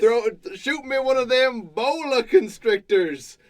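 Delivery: mock call out to a companion; acted yell. Cook calling to Carl for a boa constrictor, mildly yelling. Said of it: "he yells to Carl".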